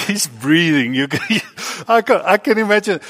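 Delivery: real laughter while speaking high; laughing. Real, not acted. Laughing at nervous boy.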